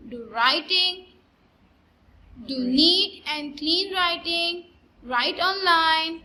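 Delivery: drawn-out, deliberate teacher reminders; slow instructions. Acted. Teacher reminding pupils about neat writing, slowly. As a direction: spell each rule out slowly.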